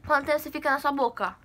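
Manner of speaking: talking while sucking sour candy; grimacing, holding nose closed; candy in mouth, nose pinched. Real, not acted. Seen 0: sour grimace with squinting eyes, finger pressing nose; candy not visible.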